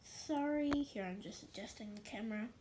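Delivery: stuffy nose from a cold; blocked-nose sick voice; nasal voice. Real, not acted. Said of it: "Sorry if I sound a little bit nasally today".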